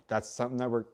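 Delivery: talking through hiccups; interrupted by hiccups. Real, not acted. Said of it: "sorry, I have the hiccups".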